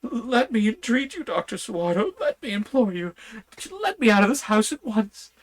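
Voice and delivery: high, loud frantic begging; a madman begging on his knees for release; desperate pleading. A narrator's reading. Madman on his knees begging the doctor to free him, frantic high pleas. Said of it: "poured forth a torrent of entreaty, with tears rolling".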